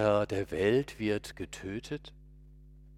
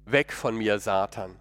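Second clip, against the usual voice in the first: louder, firm rebuke; 4 dB louder than usual. Retold or imitated. Jesus rebukes Peter before all the disciples, loud and firm. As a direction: push him away with a loud firm command. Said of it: "sagt er zu mir so laut".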